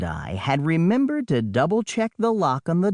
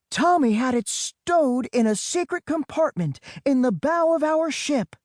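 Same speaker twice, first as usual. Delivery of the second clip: much higher, raised sister's voice; shouted back; 10 semitones higher than usual. Acted. Storm shouts back to her brother from the jet ski, raised voice. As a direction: call the answer over the engine. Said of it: "Storm shouted back".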